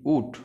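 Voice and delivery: "উড" said as "ood", no l; pronouncing would. Shown as a demonstration. Teacher showing learners how would is pronounced as "উড", model pronunciation. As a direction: say "উড" with silent l and no w glide. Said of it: "এটার উচ্চারণ হচ্ছে উড".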